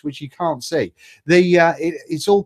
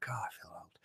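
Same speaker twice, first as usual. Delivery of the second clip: whisper; 25 dB quieter, faster than usual. Real, not acted. Rueful aside after an age joke.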